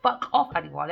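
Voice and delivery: refusing a dream visitor, harsh; firm telling off. Retold or imitated. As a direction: push him away with a firm voice. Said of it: "I said".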